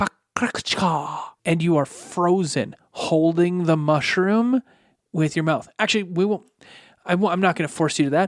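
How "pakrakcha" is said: hushed, secretive, incantation-like whisper. A game master voicing the mom as she casts Hold Person, whispering a spell. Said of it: "the mom whispers a spell".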